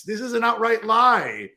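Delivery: usual speaking voice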